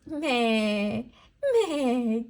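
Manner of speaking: drawn-out imitation goat bleat. Shown as a demonstration. Teacher showing what a goat says, bleating. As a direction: bleat like a goat for small children. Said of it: "goat says".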